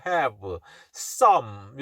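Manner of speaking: "some" ending on a closed-lip M after "have"; lips closing on M. Shown as a demonstration. Teacher contrasting sounds in "have some", M with lips closed. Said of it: "여긴 붙죠".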